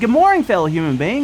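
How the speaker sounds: ordinary talk, nothing marked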